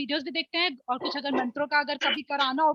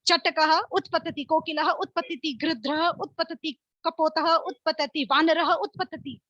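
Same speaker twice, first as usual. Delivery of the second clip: slow game calls; slower than usual. Shown as a demonstration. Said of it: "तो मैं जल्दी जल्दी बोलूंगी".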